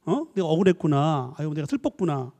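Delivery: tender comforting. Shown as a demonstration. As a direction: comfort gently. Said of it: "이렇게 하지 말고". (공감하며 부드럽게 달래는 말투)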